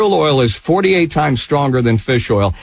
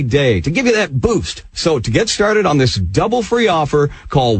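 polished infomercial pitch, punching the selling words; brisk direct-response announcer read; radio ad read. Acted. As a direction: sell it to radio listeners.

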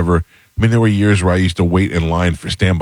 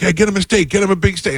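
high hammed-up mobster bark; mock tough guys; 13 semitones higher than usual. Mobsters ordering a steak for their guest, high mock bark. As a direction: play the big-shot host ordering for the table.

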